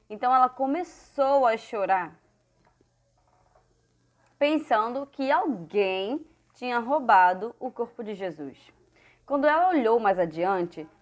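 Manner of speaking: measured, lilting Bible storytelling; story reading to children. A narrator's reading. Teacher telling children of the empty tomb, expressive story reading. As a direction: read it out phrase by phrase for children.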